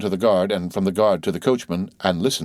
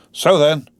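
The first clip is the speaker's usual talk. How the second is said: 1 urging the horses; 7 semitones higher, 4 dB louder than usual. A narrator's reading. Coachman urging horses uphill.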